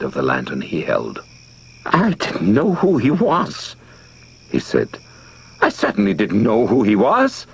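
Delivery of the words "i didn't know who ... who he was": higher, pleading on the verge of tears; tearful. A narrator's reading. Charlie pleads to the crowd after the shooting, tearful. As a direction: plead your innocence, close to tears. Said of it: "Tears rolled down his fat cheeks".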